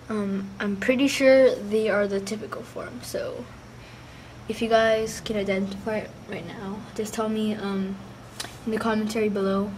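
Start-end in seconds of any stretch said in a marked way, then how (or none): 4.5-9.7 talking through a sore throat; strained, sore-throated voice. Real, not acted. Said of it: "my voice is sore".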